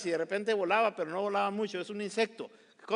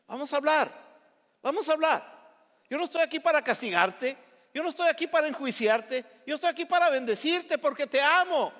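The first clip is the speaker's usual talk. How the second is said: voz de Dios; 6 semitones higher than usual. Acted. Dios habla en primera persona.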